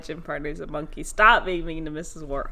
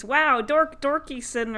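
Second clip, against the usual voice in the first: mock awe; 8 semitones higher, 3 dB louder, slower than usual. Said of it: "then everyone thinks".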